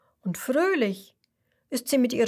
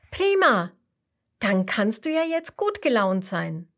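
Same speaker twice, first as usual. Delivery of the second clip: delighted. Acted. Happy fish cheers the mussel.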